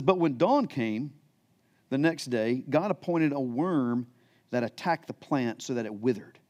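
measured, solemn Bible reading; scripture reading. Acted. Pastor reading scripture to the church, solemn and measured. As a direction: read the passage to the congregation with weight. Reads the passage's next verses.

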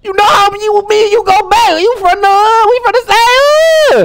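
hyped taunting. Real, not acted. Taunting opponent while winning.

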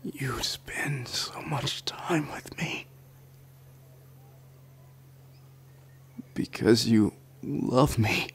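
soft stunned whisper. Acted. Tender confession to the listener.

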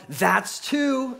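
hammed-up yell out the window; mock yell. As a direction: yell the count at the dog. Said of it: "she yells".

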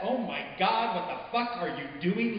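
shocked. Acted. Girl's shocked look voiced.

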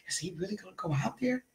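hushed, quick gossip whisper; mock whispering. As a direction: whisper it like doubters behind his back. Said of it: "You hear people whispering".

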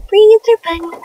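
gleeful fan shout of "Freezer Bunny"; gleeful exclaim. Real, not acted. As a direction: sing out the name like a fan. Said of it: "I love all the Freezer Bunny stuff".

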